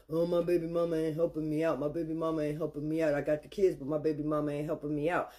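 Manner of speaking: lightly mocking, droning complaint. Imitating dads who complain on the internet, mock complaining. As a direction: run it on like a tired old grievance.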